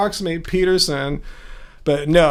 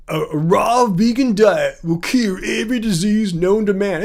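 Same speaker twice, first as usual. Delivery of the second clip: Shane. Retold or imitated. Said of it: "that Shane guy says".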